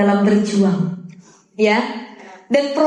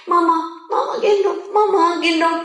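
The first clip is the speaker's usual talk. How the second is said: higher-pitched mock child's whine; whining baby; 3 semitones higher than usual. Baby to mother who just came home, whining. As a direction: lightly imitate a toddler begging to be carried. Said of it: "anaknya ngerengek".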